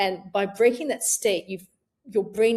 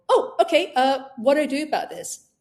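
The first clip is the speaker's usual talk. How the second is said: higher, louder perky okay; bright curiosity; 5 semitones higher, 4 dB louder than usual. Retold or imitated. Switching off worry, perky curious question. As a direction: perk up, curious. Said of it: "instead go".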